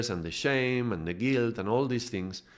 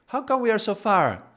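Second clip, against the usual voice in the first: higher, louder confused demand; puzzled protest; 11 semitones higher, 5 dB louder than usual. Retold or imitated. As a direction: ask why you're off course, alarmed. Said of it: "he says".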